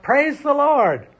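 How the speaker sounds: slow, high, loud shout of praise. Acted. Old lady shouting praise from her porch, loud. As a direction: call it out from the porch. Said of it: "She would stand on her front porch and shout".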